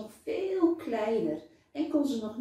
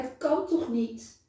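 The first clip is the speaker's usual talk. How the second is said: laughing; 8 semitones higher, 4 dB louder than usual. A narrator's reading. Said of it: "lacht Saar".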